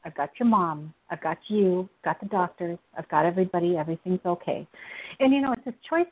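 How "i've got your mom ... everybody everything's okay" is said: lower, steady list of assurances; lightly reassuring God. Retold or imitated. God reassuring a daughter about her dad, calm and steady. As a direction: reassure point by point, unhurried. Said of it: "the thinking where he is".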